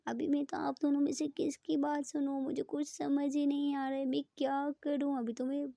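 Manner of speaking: mild mock confusion to coax a smile; playful teasing. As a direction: lightly tease her, acting helpless. Ishani teases sulking Preeta.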